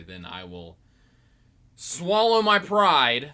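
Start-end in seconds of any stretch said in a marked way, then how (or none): 1.8-3.3 slow, loud emphasis; slow dramatic. Acted. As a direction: drag it out grandly.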